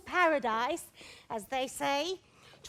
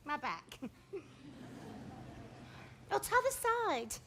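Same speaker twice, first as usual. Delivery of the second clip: aching back; 2 semitones higher than usual. Acted. Nurse moaning about her back.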